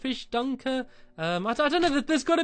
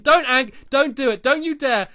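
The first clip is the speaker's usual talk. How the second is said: playful warning; 4 semitones higher, 7 dB louder than usual. Real, not acted. Warning dog not to shoot.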